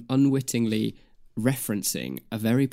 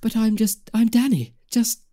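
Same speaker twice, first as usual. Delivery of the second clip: much higher, insistent protest; high put-on protest; mock bewildered hero; 11 semitones higher, 4 dB louder than usual. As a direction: deny it like a sitcom hero. Playing confused Danny role.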